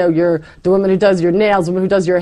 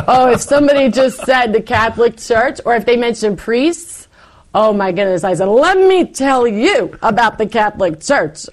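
worked up; 4 semitones higher than usual. Retold or imitated. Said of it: "I was going off".

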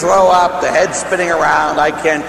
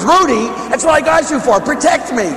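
comic panic call to the dog; retold yell at the dog; 9 semitones higher than usual. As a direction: shout at the dog to protect you, half laughing. Yelling at his dog.

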